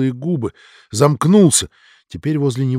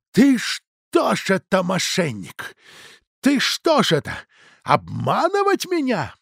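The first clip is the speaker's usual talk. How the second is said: angry shout; 5 semitones higher, slower than usual. Acted. Innkeeper Dudin furious at manager.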